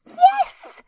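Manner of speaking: very high, slow, proud little squeak. A narrator's reading. Roo showing off from the middle of his pool, squeaky. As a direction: squeak it like a tiny proud joey. Roo's voice.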